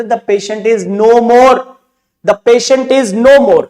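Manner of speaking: slow tender version; gentle euphemism. Shown as a demonstration. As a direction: break the news gently and slowly. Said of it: "doctor बोलते".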